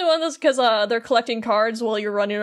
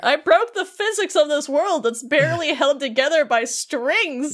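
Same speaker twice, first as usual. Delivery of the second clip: drawn-out, higher-pitched protest; mock-upset Beast; 4 semitones higher than usual. Beast boasting to Belle of his rescue effort, hammed-up hurt. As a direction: stretch out the wounded complaint, pitched up. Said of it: "Beast is getting all sad".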